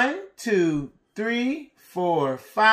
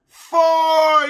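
excited shout; 4 semitones higher, 5 dB louder than usual. Pretend. Shouted answer for the class.

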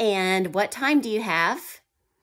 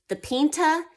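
Spanish accent; 4 dB louder than usual. Shown as a demonstration. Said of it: "lost my Spanish accent there".

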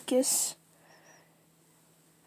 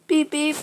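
higher-pitched imitated beep-beep; car horn beeps; 4 semitones higher than usual.

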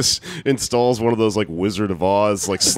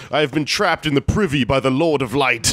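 higher, hammed-up medieval plea; mock fantasy captive; 4 semitones higher than usual. Telling of woman trapped in bathroom, mock fantasy. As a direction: declaim it like a fantasy heroine, lightly.

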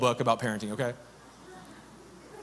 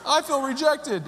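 small hurt voice; 11 semitones higher than usual. Retold or imitated. Speaker voicing her own fear of rejection, high and small. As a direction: voice the feelings like a timid child.

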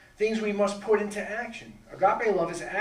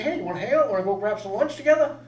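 eager invitation; 6 semitones higher, 9 dB louder, faster than usual. Retold or imitated. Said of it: "You say".

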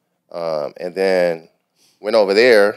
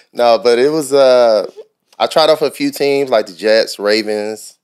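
mouth full of peanut butter; 3 semitones higher than usual. Real, not acted. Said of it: "You can't put peanut butter in your mouth while you're talking".

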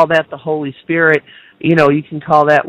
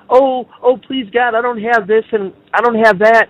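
whiny beggar; 5 semitones higher than usual. Retold or imitated. Mock whiny prayer to God.

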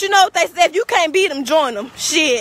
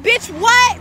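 incredulous what; 7 semitones higher than usual. Real, not acted. Incredulous reaction to her claim.

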